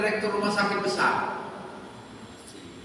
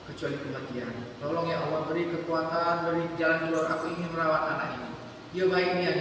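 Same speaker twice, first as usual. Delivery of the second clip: tearful prayer; 4 semitones lower, 7 dB quieter than usual. Acted. Mother's long prayer for her child.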